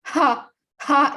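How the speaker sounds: demo ha. Shown as a demonstration. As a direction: repeat a quick ha from the throat. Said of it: "just do this again".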